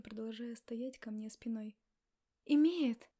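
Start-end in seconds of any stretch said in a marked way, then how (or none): 2.4-3.1 loud sharp outcry; exclaimed. Acted. Woman insisting against his back, loud exclamation. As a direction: burst out with it, loud. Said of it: "воскликнула я".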